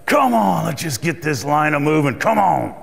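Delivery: mild mock impatience, pushing the line along; impatient huffing. Impatient customer in the checkout line, mild huffing. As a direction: hurry the cashier, lightly. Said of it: "this lady is huffing and puffing".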